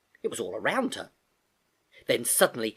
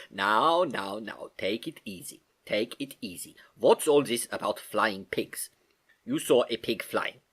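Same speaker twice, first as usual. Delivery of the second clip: soothing uncle. Acted. Uncle calms her.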